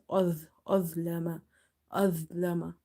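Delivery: azlama with a dark, thick dh from the tongue tip; heavy dha. Shown as a demonstration. Teacher contrasts it with dhal, heavy dh. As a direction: make the dh in azlama full and heavy. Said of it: "this dha is heavy".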